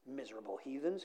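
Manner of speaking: lightly muttered grumble; a touch of muttering to oneself. A narrator's reading. Donkey grumbling about the people, lightly muttered. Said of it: "he muttered to himself".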